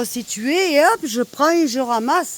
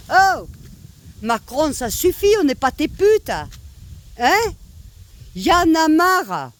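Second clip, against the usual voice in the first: raised-pitch angry protest; fed up; 5 semitones higher than usual. Real, not acted. Woman telling Macron that's enough, fed up. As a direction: protest indignantly, pitch pushed up.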